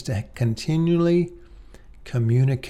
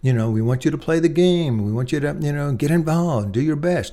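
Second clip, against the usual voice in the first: encouraging coach; 3 semitones higher than usual. Retold or imitated. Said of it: "You're a coach to them".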